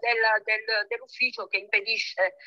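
talking over speakerphone. Real, not acted. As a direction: voice through a phone speaker. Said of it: "ce l'ho in viva voce".

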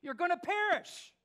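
high, stretched-out desperate shout; desperate clown. Retold or imitated. Clown warns the audience a third time, loud desperate shout. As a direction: shout the warning as a last plea, drawing out the words. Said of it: "he did it a third time".

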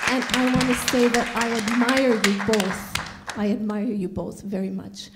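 shaky, emotional voice. Real, not acted. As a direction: voice shaking with emotion. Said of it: "my voice is shaking because".

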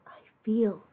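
high, soft, slow little snail voice; a tiny voice, awed and humbled; slow, wondering whisper of a small snail. Acted. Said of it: "she said to the whale".

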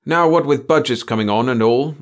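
complaining. A narrator's reading. Chief worrying over budgets to the boys, complaining. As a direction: grumble it with a rising end. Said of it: "the chief complained".

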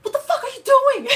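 high, loud, half-laughing cry of disbelief; mock-exasperated laughing shout; laughing outburst at God. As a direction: yell at God through a laugh. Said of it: "And I was like".

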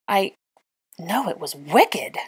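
breathless, slow correction; out of breath. Acted. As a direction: still panting from the dive. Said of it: "still catching his breath".

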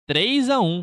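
high, loud score call; excited shout. Real, not acted. Announcing the score.

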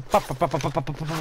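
pounding heart pa-pa-pa; heartbeat noise. Retold or imitated. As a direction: beat out a racing heartbeat. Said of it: "estoy con el corazón".

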